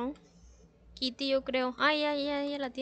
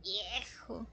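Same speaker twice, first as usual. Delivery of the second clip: whispering; 5 semitones lower, 9 dB quieter than usual. Real, not acted. Whispered reply while exploring.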